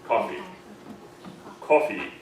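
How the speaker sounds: coffee with an American barred I vowel; American accent, coffee. Shown as a demonstration. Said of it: "in American, we wanna say the barred I".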